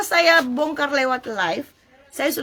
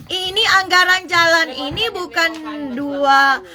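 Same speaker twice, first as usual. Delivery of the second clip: lightly imitated official, a little higher; mildly raised voice for a quoted legislator; quoting a council member; 3 semitones higher than usual. Streamer retelling a council member's words on road budget, lightly imitated. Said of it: "anggota D P R itu bilang begini".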